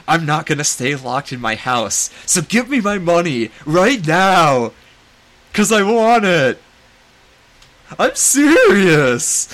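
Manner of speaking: put-on building to a high, loud, whiny-kid demand; hammed-up tantrum that climbs to a yell; bratty mock tantrum. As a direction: act out a bratty outburst, stretching the last words. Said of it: "he's just sarcastic and, and kind of bratty".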